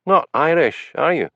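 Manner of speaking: dry, sarcastic jab. A narrator's reading. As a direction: needle her with a sarcastic question. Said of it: "asked Hamish sarcastically".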